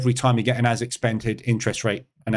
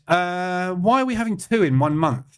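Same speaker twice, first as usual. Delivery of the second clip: baffled; 6 semitones higher than usual. Real, not acted. Still puzzled by the second announcement.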